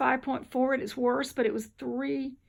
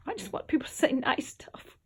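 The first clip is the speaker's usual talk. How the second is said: whispering. Real, not acted. Soft confession.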